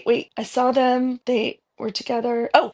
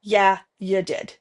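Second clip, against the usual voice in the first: Jesus in her voice. Retold or imitated. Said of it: "Jesus responded in my voice".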